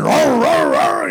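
loud high roaring like a revving engine. Shown as a demonstration. Preacher imitating his own loud personality, roaring engine. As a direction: rev it up loud, roar roar. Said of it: "it's like a revving engine".

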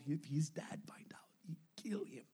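hushed whisper, like a secret. Retold or imitated. Interpreter relaying the scared son's secret, whispered. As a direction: whisper it so nobody overhears.

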